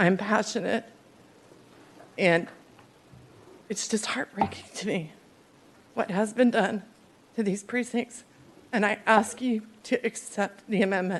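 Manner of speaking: tearful speech, speaking through tears, crying. Asking colleagues to accept an amendment on district lines, crying. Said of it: "but here I am crying".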